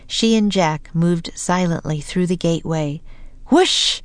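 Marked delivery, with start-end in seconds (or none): 3.5-4.0 wind whoosh. A narrator's reading. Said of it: "said Annie".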